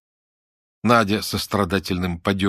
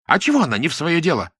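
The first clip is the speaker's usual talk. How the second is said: fast, high, louder angry retort; 8 semitones higher, 3 dB louder, faster than usual. A narrator's reading. Lyuda snaps back at Dasha, fast angry retort. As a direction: rattle it off in anger. Lyuda keeps attacking in quarrel.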